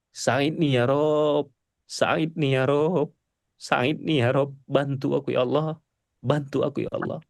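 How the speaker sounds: slow, hushed repeated plea; prayer in prostration. Shown as a demonstration. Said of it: "Habis itu sujud lagi".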